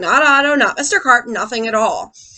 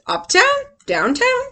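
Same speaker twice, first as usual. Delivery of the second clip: mild wondering; 11 semitones higher, slower than usual. Acted. Boy wondering where to go.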